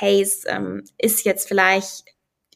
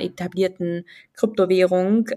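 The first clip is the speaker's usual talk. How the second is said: "etablierten" picked out with emphasis; stress on etablierten. Real, not acted. Guest qualifying which cryptocurrency can add value, emphasis on "etablierten". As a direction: lean on the word "etablierten". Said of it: "ich betone jetzt wirklich etabliert".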